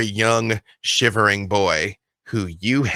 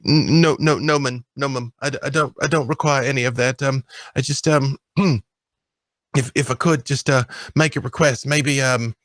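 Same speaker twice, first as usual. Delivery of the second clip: put-on higher, stammering child's voice; the boy nervously asks his guardian to go fishing; 4 semitones higher, faster than usual. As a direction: trip over the words like a shy ward. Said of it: "And he's like".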